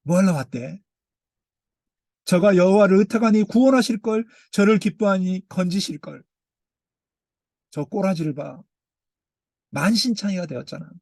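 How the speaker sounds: mocking sneer. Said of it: "입술을 삐죽거려요".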